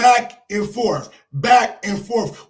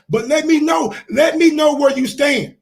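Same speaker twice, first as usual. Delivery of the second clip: raised, insistent call-out; loud demand; 3 semitones higher, 4 dB louder than usual. Real, not acted. Vlogger calling out Bud, loud insistent demand. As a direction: lean in and demand an answer.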